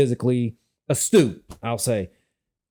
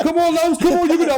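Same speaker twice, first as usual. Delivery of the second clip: imitated cheering; 13 semitones higher, 3 dB louder, faster than usual. Classmates cheering him on.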